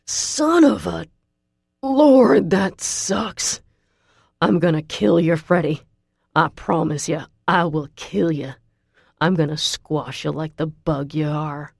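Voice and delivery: gruff pained Southern man shouting. A narrator's reading. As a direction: yell through the pain. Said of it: "Russell shouts and then groans".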